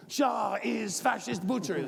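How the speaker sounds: high, loud, slow protest yell; gleeful roommate screaming a slogan; imitated screaming. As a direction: belt it out like a fired-up protester.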